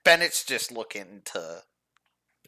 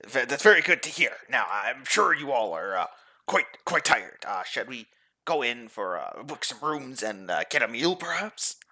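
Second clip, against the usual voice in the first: nervous stammering gentleman; 2 semitones higher, slower than usual. Acted. Bennett played stammering.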